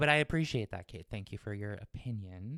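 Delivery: very sassy, pointed tone. Thanking the other speaker for their opinion: sassy tone. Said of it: "That was such sass".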